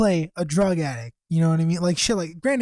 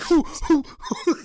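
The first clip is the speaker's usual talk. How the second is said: high-pitched whooping hoots; hype hoots; 8 semitones higher than usual. Retold or imitated. Reenacting his reaction to the class argument, hype hoots. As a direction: hoot like you're hyping up a fight. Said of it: "I'm, like, hyping shit".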